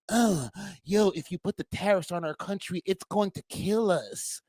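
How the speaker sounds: lightly voiced timid leader; mock weak plea. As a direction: whimper the plea to sound spineless. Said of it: "You sound like a damn pum-pum virgin".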